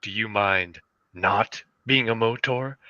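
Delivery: low, deliberate commercial delivery; measured low mock ad voice; ad guy. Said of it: "the guy looks at him and is like".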